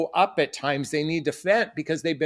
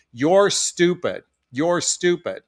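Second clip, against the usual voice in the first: imitating teacher; slower than usual. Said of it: "a third grade teacher say to the classroom".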